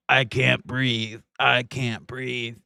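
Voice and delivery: slow mocking imitation of the plea. Host mimicking the man's plea, slow and mocking. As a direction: drag it out slowly like a faked cry. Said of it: "the whole".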